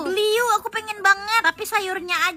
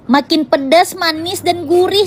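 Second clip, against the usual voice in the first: loud ad shout; 9 dB louder than usual. Acted. Loud ad tagline.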